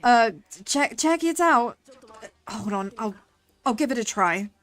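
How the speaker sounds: lightly put-on American accent in a chatty voice; subtle American accent. Voicing game character in American accent.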